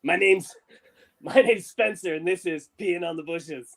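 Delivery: Steve-O voice. Retold or imitated. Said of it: "this Steve-O voice".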